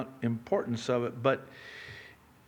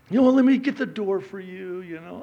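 slightly higher, eager-to-please imitation; mock newlywed sweet talk; 8 semitones higher, 6 dB louder than usual. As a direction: lightly imitate a doting newlywed. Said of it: "even the way you talk to each other".

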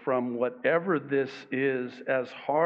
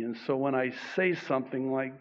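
ordinary delivery

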